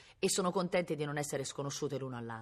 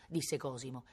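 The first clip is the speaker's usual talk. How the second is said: usual speaking voice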